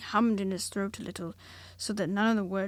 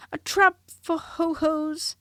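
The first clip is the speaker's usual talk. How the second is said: slow, higher husky Piglet; 6 semitones higher, 7 dB louder, slower than usual. A narrator's reading. Piglet explaining his trap, slow husky voice. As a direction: rasp it out nervously. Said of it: "said Piglet huskily".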